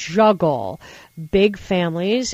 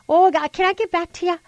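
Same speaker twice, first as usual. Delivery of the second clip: higher, fast, flustered stalling; mock flustered Palin; 9 semitones higher, faster than usual. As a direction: pitch it up and rush like caught out.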